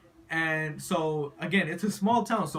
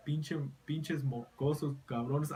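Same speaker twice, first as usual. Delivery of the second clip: scolding Spanish lady; 6 dB quieter, slower than usual. Retold or imitated. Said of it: "the lady said something Spanish".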